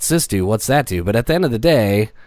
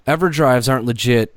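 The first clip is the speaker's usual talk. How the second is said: surfer guy voice; 3 semitones higher than usual. Retold or imitated. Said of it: "I'm using Surfer Guy voice".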